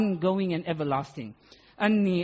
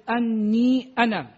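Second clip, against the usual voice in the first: "Anni ana" said slowly, with the doubled n of "Anni" held long; stressed Arabic phrase; 5 dB louder, slower than usual. Shown as a demonstration. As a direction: draw out "Anni ana" and lean on the first syllable. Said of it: "if you look at anni".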